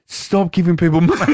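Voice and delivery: barman's plea cracking into a laugh; amused punchline delivery; retold with laughter. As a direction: start the telling-off, then give way to laughing.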